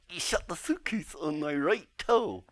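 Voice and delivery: whispered complaint. Pretend. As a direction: hiss the complaint under your breath. Puppet complains from inside case.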